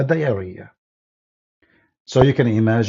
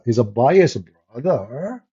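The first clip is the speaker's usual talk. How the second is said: sarcastic question; slower than usual. Real, not acted. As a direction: ask "He's a biased brother?" with mock doubt. Repeats phrase as a question.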